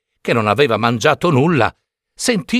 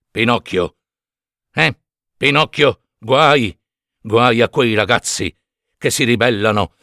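talking cricket. Acted. Cricket voice held.

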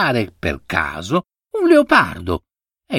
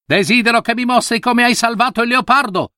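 put-on a higher, sharp-edged old monkey; harsh monkey voice; 10 semitones higher, faster than usual. A narrator's reading. The monkey judge questions the monk, harsh and higher. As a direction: scold him sharply, like a stern judge.

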